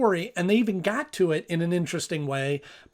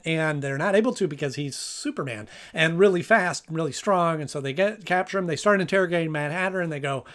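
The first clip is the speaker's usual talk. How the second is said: hurried episode rundown; talking fast. Real, not acted. Host racing through a sixty-second episode rundown, talking fast. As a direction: rattle through the plot against a clock. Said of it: "I'm talking as fast as I can".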